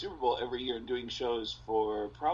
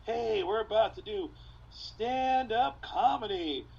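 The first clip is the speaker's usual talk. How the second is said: higher, slow eager host voice; nervous new comic; 8 semitones higher, 4 dB louder than usual. Retold or imitated. New comic greeting a pizza bar crowd, in a higher eager voice. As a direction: play a green opener greeting the room. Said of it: "most awkward delivery".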